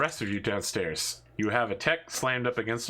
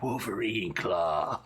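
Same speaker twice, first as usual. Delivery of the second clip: imitating Rad; 3 semitones lower, much slower than usual. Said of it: "then Rad is like".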